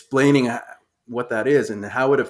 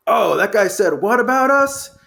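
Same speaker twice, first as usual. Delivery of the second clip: mock whine; 8 semitones higher, 3 dB louder than usual. Mocking player's grievance.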